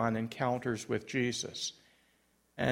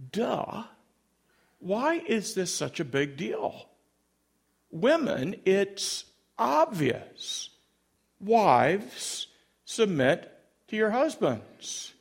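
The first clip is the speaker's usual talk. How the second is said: higher, emphatic "isn't it obvious" delivery; condescending certainty; 6 semitones higher, slower than usual. Retold or imitated. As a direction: spell it out to the women as self-evident. Scarlett scoffs that it is obvious.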